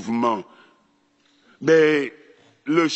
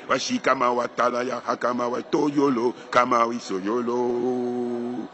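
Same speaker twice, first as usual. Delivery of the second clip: fluent nonsense syllables spoken smoothly; speaking in tongues; 2 semitones lower than usual. Shown as a demonstration. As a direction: let syllables come freely. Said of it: "les syllabes qui vous viennent".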